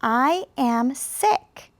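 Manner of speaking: "I am sick." drawn out very slowly; slow choral reading. Shown as a demonstration. Teacher speaking along with students, very slow and clear. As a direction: say "I am sick." slowly together with the class. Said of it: "I'll speak the sentence with you".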